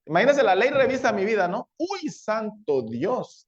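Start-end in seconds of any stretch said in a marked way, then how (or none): 1.8-3.4 shocked law. Acted. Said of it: "dice la ley".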